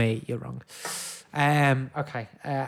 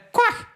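high squeaky quack; duck quack; 6 dB louder than usual. Pretend. Buzzer noise in quiz.

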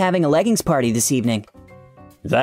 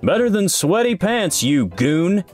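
high-pitched comeback, falling on the insult; snappy retort; 7 semitones higher, slower than usual. A narrator's reading. Boss answering the supervisor about candles, catty retort. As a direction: fire back a mock-catty insult. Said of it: "Mister Mason retorted".

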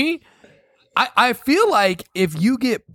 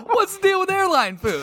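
stand-up comic. Pretend. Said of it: "It's like stand-up comedy right now".

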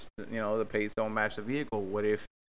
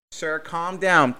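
mock dispatcher; 3 semitones higher, 7 dB louder, much slower than usual. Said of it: "there she goes again with the "calm down".

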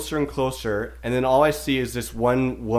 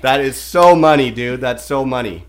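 lightly voiced dude praising his buddy; mock bro voice; 6 dB louder than usual. Friend retelling store bros, mocking bro voice. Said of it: "The guy just says to the one guy".

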